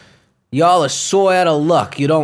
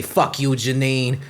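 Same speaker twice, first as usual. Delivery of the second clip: slow deliberate retort; 4 semitones lower, 3 dB quieter, slower than usual. Retold or imitated. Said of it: "I say".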